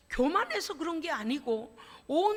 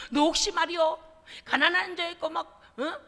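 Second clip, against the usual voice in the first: accusing interrogation; 2 semitones higher, 4 dB louder than usual. Acted. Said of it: "막 그러면서".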